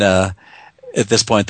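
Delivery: ordinary talk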